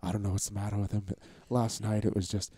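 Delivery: wife telling Tom about the night; worried wife. Retold or imitated. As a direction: murmur it like overheard through a door. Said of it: "hear Leslie and Tom like".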